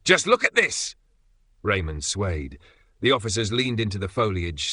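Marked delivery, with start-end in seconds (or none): 0.0-1.0 very high, louder delighted exclaim; amazed exclaim. Acted. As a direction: marvel out loud at the plant. Officer astonished by plant.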